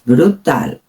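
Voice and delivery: "brutal" with a firm T, stressed drawn-out final syllable; "brutal" slowly, crisp T and long stressed -tal; Spanish pronunciation. Shown as a demonstration. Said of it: "No es brutal".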